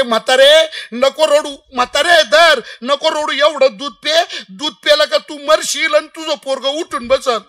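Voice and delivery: lightly acted holy man's persuasion; coaxing command. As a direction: press the drink on a crying old woman. Holy man coaxing old woman.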